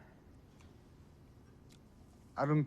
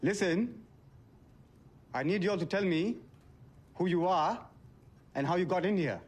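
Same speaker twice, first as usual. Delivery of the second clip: raised-pitch, insistent ultimatum; agitated demand; 5 semitones higher than usual. Acted. Deliveryman threatens strangers with the police, agitated demand. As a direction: press them hard for answers.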